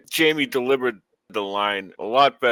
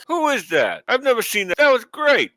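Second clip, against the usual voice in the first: high-pitched excited astonishment; wowed fan reliving the moment; amazed reaction; 11 semitones higher than usual. Retold or imitated. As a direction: exclaim it high, thrilled by what you saw.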